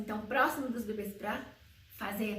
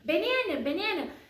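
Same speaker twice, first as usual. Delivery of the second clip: put-on mother repeating word to baby; 5 semitones higher than usual. Mother teaching baby the word banana, sing-song baby talk. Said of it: "Ela faz alguns sons".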